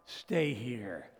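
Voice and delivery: low soft whisper; whispered tender reminder. Acted. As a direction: repeat it as a hush. Repeat of Jesus' words.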